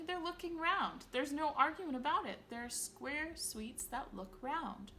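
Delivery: high, loud victory; triumphant. A narrator's reading. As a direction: gloat gleefully. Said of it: "he cried triumphantly".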